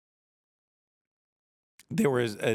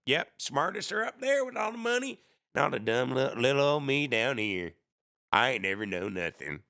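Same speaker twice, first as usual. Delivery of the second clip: mock dumb hick; 4 semitones higher than usual. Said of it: "Everything is a".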